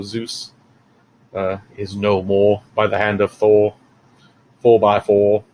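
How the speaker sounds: hammed-up solemn proclamation; mock-solemn pronouncement. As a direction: declare the death with mock grandeur. Mock-solemn pronouncement of Zeus's death.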